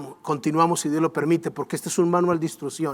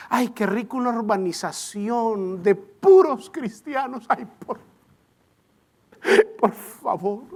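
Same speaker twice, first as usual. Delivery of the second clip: mock pious prayer; 4 dB quieter than usual. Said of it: "Hay gente que hace oraciones como".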